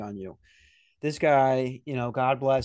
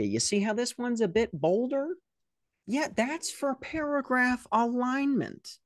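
pedantic coworker; 6 semitones higher than usual. Retold or imitated. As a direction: lecture on formatting like a fussy know-it-all. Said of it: "he just goes".

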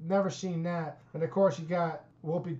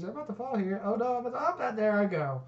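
higher-pitched mock animal voiceover; lightly put-on cartoonish commentary; funny video voiceover; 5 semitones higher, faster than usual. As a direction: voice a hapless animal narrating its tumble. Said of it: "He always does his own voices".

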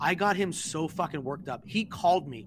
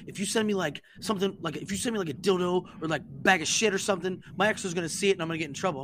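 higher-pitched imitation of a fretting friend; mock-worried pleading, pitched up; 5 semitones higher, faster than usual. Worried friend warning the prankster about his career, fretting. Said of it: "He's so fucking worried".

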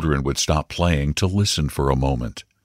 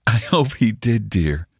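higher, wry mother's voice; mildly bitter amusement; 4 semitones higher than usual. A narrator's reading. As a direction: humour the child with a bitter edge. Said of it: "again with a laugh, but rather bitter".

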